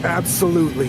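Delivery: angry gravelly voice. Acted. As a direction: growl it like a threat. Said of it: "still in the angry, gravelly voice".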